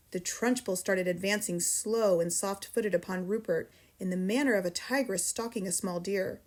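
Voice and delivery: ordinary delivery, nothing marked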